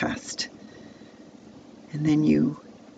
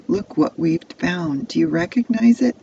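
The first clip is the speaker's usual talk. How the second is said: asking; 3 semitones higher, 4 dB louder than usual. Acted. Brothers showing father the coat, asking. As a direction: ask it with a rising, quickening voice. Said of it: "they asked".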